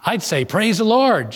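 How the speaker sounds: high, drawn-out joyful retold exclamation; exclaiming praise. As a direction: exclaim it slowly with rising pitch. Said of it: "she exclaimed".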